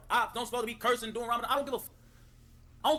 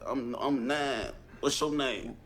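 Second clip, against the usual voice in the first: mock little kid; 9 semitones lower, much slower than usual. Mocking a kid's voice.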